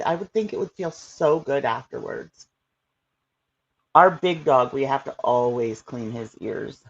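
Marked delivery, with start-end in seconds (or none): 3.9-6.8 talking through hiccups; hiccuping between words. Real, not acted. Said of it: "I'm getting the hiccups".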